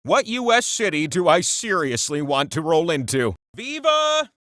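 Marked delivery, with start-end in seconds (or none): 3.6-4.3 high, gleeful cheer; excited cheer. Acted. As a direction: belt it like a showman. Celebrating Las Vegas answer.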